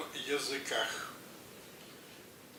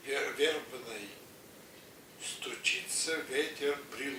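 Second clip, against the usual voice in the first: poem recitation; 3 dB quieter than usual. Acted.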